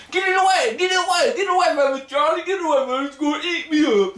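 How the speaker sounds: high-pitched panicked shriek; screaming in terror. Retold or imitated. Soldier screaming for Charlie to get it away. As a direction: scream like a grown man scared of a critter. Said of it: "he's just screaming and hollering".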